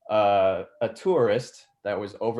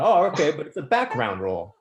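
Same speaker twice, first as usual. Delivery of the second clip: mock surprise; 6 semitones higher, 5 dB louder, faster than usual. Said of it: "and like".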